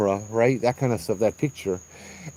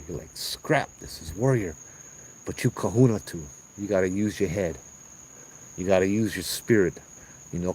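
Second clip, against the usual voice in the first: calming friend; 3 semitones lower than usual. Retold or imitated. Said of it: "And I'm like".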